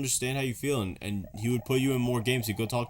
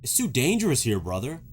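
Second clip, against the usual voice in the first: lightly acted warning, pitched up then dropping; worried hero; 4 semitones higher, 3 dB louder than usual. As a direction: warn your brother in a light hero voice. Voices Mario warning his brother.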